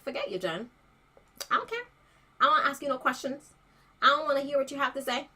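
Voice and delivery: dismissive. Retold or imitated. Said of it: "people may have been like".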